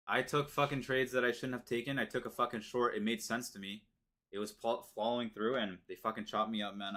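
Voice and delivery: heated, frustrated rant; annoyed. Real, not acted. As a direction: vent at the bad trade, real annoyance. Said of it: "I'm fucking annoyed".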